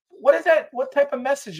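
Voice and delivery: high, loud indignant question; outraged question. Real, not acted. Outraged at nukes in Poland, shouting. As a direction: shout it in disbelief.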